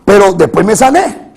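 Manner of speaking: emphatic sermon cadence; preaching. Real, not acted. Preacher assures congregation of victory despite illness, preaching. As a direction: proclaim it to the congregation with force.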